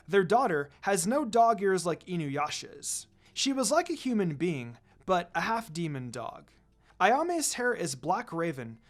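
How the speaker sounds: steady storytelling read of a fanfic; story narration. A narrator's reading. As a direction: read the chapter like a narrator to listeners. Reads fanfic story aloud.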